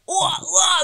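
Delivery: high-pitched imitated clinic-wide ranting; mock angry yelling. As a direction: imitate a burst of angry shouting. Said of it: "marah sampai yang satu klinik". (tiruan suara orang marah-marah)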